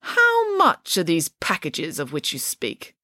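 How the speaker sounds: slow, wary questioning; suspicious. Acted. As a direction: narrow it down with suspicion. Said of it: "eyebrows began to lower in suspicion".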